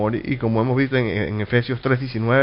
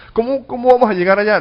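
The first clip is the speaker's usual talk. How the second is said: higher, louder baffled question as Thomas; puzzled disciple asking; 8 semitones higher, 4 dB louder, faster than usual. Acted. Thomas asking Jesus the way, raised and puzzled. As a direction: ask it like a confused follower.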